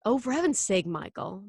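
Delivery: mildly exasperated mother. Acted. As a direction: scold the child with a touch of impatience. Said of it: "Mom looked exasperated".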